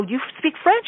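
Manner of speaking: high, incredulous question; astonished retold question; acted surprise. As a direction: re-enact your disbelief, pitch shooting up at the end. Acting out her surprised question.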